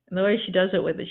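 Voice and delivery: ordinary talk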